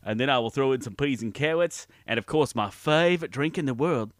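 Forrest Gump voice. Acted. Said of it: "Please welcome Forrest Gump".

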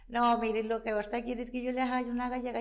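lightly voiced pedantic lecturing. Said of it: "yo fui bien pedante". (tono pedante, un poco más agudo)

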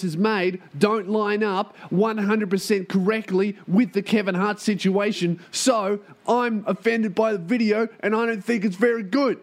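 high, whining offended commenter; mock the offended viewer; whiny critic. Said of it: "all these people are coming to the video going".

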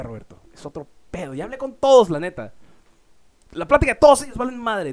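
a hint of a sloppy drunk gushing; drunk doctor, very different. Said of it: "lo repite, pero de una manera muy diferente".

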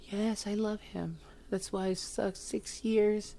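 high mock bartender voice. Mocking the heartbroken bartender to a friend, high and slow. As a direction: mimic her sappy answer slowly and high. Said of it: "Is that how she sounds?".

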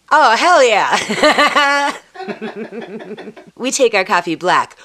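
laughing sign-off. Acted.

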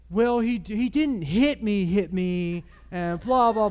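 put-on high, loud little-girl voice; voicing his little daughter. Preacher mimics his daughter in a high loud voice. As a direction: squeak it out like a four-year-old.

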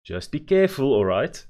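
loud, high urging call. A narrator's reading. Mother calling after her daughter on the truck, loud urging. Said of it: "urged Mother".

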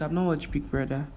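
ordinary delivery

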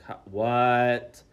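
loud, drawn-out mock bafflement; shocked disbelief. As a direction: react stunned, stretching the last word. Retelling shock at nudes story.

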